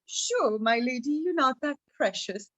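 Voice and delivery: lightly mocking agreement in an ordinary register; teasing. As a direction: humour her as if you don't believe it. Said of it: "he'd laugh at her".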